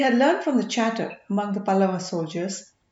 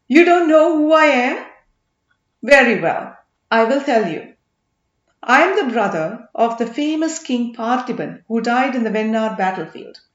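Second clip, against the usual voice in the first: loud boastful pride; 6 dB louder than usual. Acted. Marappan boasting his rank to the merchant, loud and proud.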